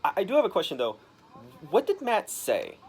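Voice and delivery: high, loud with a laugh; giggly eager witness; starstruck laughing. Retold or imitated. Witness gushing to the reporter, high and laughing. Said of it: "It's like".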